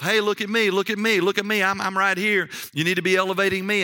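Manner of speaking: high-pitched, insistent bid for attention; mock self-promotion. Preacher acting out people elevating themselves, mock attention-seeking. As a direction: clamour to be noticed, pitch up, quickening at the end. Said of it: "we try to elevate ourselves".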